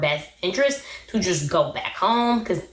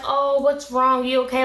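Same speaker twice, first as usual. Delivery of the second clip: drawn-out, higher fake sympathy; mock concern; 5 semitones higher than usual. Yazan reaching for her face, mock concern. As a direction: imitate a manipulator feigning care, slow and pitched up. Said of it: "he's being really manipulative".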